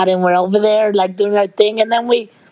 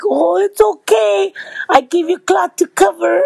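much higher, laughing while quoting the nurse; laughing through quote; 9 semitones higher than usual. Retold or imitated. Quoting the nurse's offer of cloth while laughing. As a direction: squeeze the line out through laughter.

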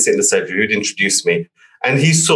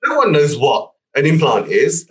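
mock outrage at normal volume; retold angry rant; 6 semitones higher than usual. Client berating his designer about the leaflet, mild mock exasperation. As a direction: imitate the client's exasperation, higher pitch. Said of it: "shouting, screaming".

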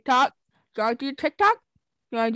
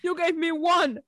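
higher-pitched, indignant protest; mock indignation; 5 semitones higher than usual. Telling a friend off over accents given, mock indignant. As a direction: argue back in playful outrage.

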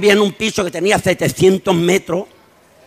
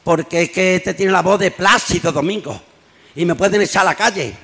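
a hint of a grave, lower mayor; serious mayor; 3 semitones lower, 3 dB quieter than usual. Mayor orders the shouting man away, serious and low. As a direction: play the mayor dead serious, voice dropped. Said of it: "dice el alcalde muy serio".

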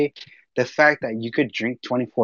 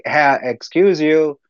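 a higher, slow, sassy "excuse you"; telling a friend how he scolded a lady who cut the line, higher and slow; retold comeback; 5 semitones higher than usual. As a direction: put her in her place with mock politeness. Confronting a line-cutter.

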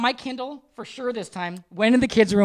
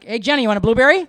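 fast, offhand question; casual quick ask; 4 dB louder, faster than usual. Retold or imitated. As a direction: toss it off quickly without looking up. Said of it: "I'm like".

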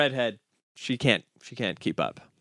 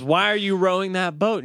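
puzzled blonde; 8 semitones higher, 4 dB louder than usual. Acted. Blonde calls to rowing blonde.

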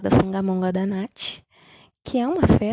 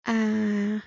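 normal talking voice

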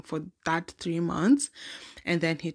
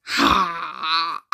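nervous laughter. Real, not acted. Teacher's threat recalled.

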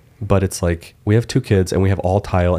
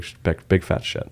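whispered confession; 5 dB quieter than usual. Real, not acted. Confiding a gross detail.

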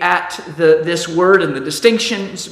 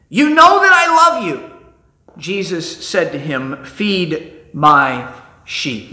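scripture reading. Acted. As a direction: read it out like a pulpit lesson. Reads John 21 scripture aloud.

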